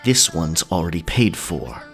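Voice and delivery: deep, firm warning voice; snarled claim. A narrator's reading. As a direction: stake your claim in a low snarl. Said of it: "voice rising as he gestured around the room".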